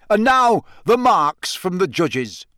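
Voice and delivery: high, loud opening, then drawn out; slow showman's announcement; announcer's shout. A narrator's reading. Bagman announces the judges' marks, shouting and drawn out. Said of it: "Bagman was shouting".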